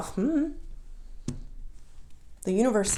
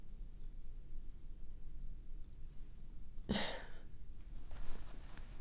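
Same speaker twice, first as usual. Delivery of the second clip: tearful sigh; 15 dB quieter than usual. Real, not acted. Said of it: "but for crying".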